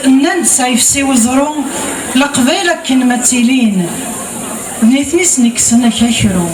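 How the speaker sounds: measured verse delivery, line by line; recited poem with cadenced line endings; poetry recitation. Acted. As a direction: declaim the poem, pausing after each line. Recites verse after chatting.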